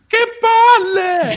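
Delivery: high, drawn-out shout of exasperation; exasperated shout. Real, not acted. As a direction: let it burst out, stretched long. Exasperated outburst.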